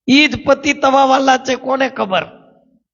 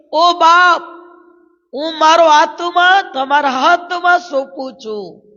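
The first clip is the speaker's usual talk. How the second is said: voicing Jesus' loud cry, a little louder and higher; 5 semitones higher than usual. Pastor voicing Jesus' final loud cry to the congregation, raised voice. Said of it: "પ્રભુ ઈસુએ મોટા બૂમ પાડીને".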